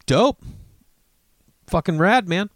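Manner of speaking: pitched high, pumped "dope, fucking rad"; hyped-up dude. Retold or imitated. Telling his buddy the news is rad, hyped. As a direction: sell it like a stoked buddy.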